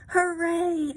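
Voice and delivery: high, loud little hooray; cheering kittens. Acted. Kittens cheer after reaching the ledge.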